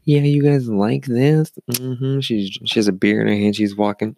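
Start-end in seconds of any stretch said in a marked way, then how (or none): 0.0-2.2 higher, drawn-out "watch me" voice; cocky show-off. Retold or imitated. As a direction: mimic a drunk girl showing off. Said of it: "she thought she was all hot shit".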